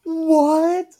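high, loud, rising what; incredulous. Real, not acted. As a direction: blurt it out in disbelief. Baffled by talk of voices.

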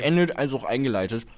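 talking while eating an apple; words around a bite of apple; mouth full. Real, not acted. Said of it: "ich esse hier gerade einen Apfel".

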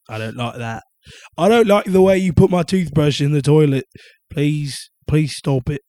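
complaint in a mock British accent; put-on British accent. Complaining to mom about the toothbrush, mock British accent. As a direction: plead in a playful British accent. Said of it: "she hopped on the accent".

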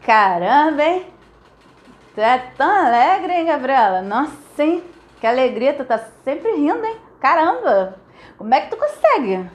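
a hint of mock envy; lightly needling, half smiling; lightly voiced jealous friend; envious tease. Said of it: "quando você fala assim".

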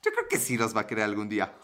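said through a chuckle; amused, half laughing at himself; laughing retold thought. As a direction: laugh while quoting his own cocky thought. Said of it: "Y yo dije".

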